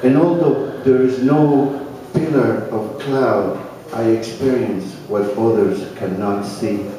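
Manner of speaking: measured, slightly fuller poetry recital voice; unhurried recital with pauses between images; poem reading. Acted. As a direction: read it like a poet sharing his work at a cafe. Reads his own poem.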